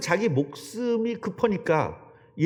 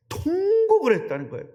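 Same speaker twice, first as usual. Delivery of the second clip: emphatic; 13 semitones higher, 3 dB louder than usual. Real, not acted. Preacher stressing Peter's wailing.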